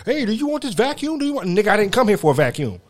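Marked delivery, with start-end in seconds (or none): 0.1-1.5 salesman pitch. Retold or imitated. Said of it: "the salesman keep trying".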